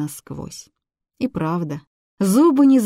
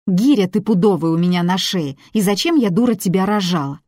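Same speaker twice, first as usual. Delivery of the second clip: mocking mother; 2 semitones higher, 5 dB louder than usual. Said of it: "зло передразнила материны визгливые нотки".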